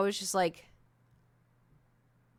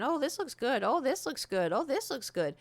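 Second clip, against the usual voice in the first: lightly mimicked chatter, pitched higher; mock chatty friends, a little higher; friends yapping; 5 semitones higher than usual. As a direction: imitate friends gushing over the menu. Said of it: "everyone's all yapping".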